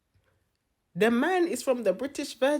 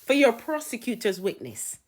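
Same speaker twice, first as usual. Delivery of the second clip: lightly theatrical verdict; a touch of booming judge; sentencing judge; 3 semitones higher, 5 dB louder than usual. Acted. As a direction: announce the punishment with mock grandeur. Mock judge passing a sentence.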